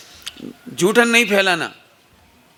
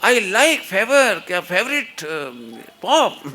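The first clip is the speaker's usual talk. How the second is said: mock show-off; much slower than usual. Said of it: "दुनिया को ये बताने के लिए".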